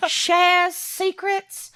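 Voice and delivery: put-on slow, lightly drawn-out Southern accent; a hint of Southern drawl, slowed. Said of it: "Sorry, I've gone southern".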